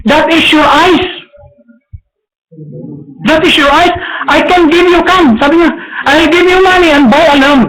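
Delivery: high, pressing offer; high priest pressing Bartimaeus to keep his eyes; urging high priest. Acted. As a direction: persuade him to keep the lamb.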